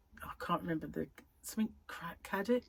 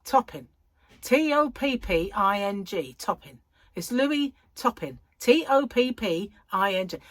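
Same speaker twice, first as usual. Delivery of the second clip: loud, insistent spelling-out of her name; imitating neighbour; 3 semitones higher, 6 dB louder than usual. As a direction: spell it out firmly down the phone. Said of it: "she'd say".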